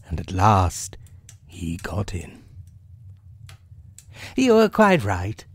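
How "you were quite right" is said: high rabbit voice. Acted. Rabbit admitting the bear was right, high voice. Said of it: "said Rabbit".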